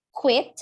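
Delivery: quit as short kwit; pronunciation demo. Shown as a demonstration. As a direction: say quit in one syllable with a short i. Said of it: "Cara bacanya".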